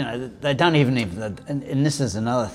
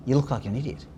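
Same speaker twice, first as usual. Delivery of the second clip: hostile; 3 semitones higher, faster than usual. Retold or imitated. Gym stranger's hostile retort.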